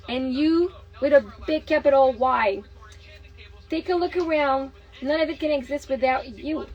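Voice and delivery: steady, earnest book reading; reading aloud. Acted. Mother reading The Secret aloud to her partner, earnest reading. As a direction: read the passage out like a lesson.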